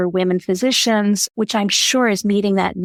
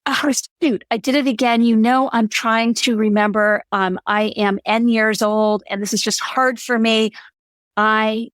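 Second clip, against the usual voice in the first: self-centered over-apology; 2 semitones higher than usual. Shown as a demonstration. Mocking someone who misgenders a colleague, then over-apologizes in a flustered voice. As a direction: lightly play the fumbling over-apologizer making excuses. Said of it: "Do not make it all about yourself every time you make a mistake".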